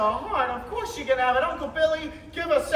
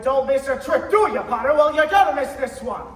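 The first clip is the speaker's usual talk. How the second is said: louder, biting sarcasm; defiant retort; 7 dB louder than usual. Acted. George defying Potter over the phone, louder scorn. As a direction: throw it back at him with scorn.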